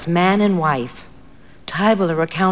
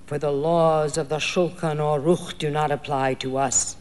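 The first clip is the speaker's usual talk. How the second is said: booming demon voice. Acted. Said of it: "The voice of the teacher's helper boomed out".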